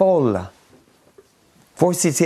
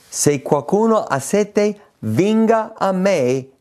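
proclamazione; 7 semitones higher, slower than usual. Shown as a demonstration. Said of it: "E Gesù dichiara".

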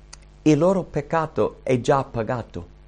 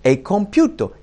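cry of triumph; 6 semitones higher, 3 dB louder than usual. Retold or imitated. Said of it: "una delle ultime frasi che gridò era".

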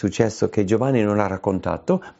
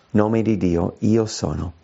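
usual speaking voice

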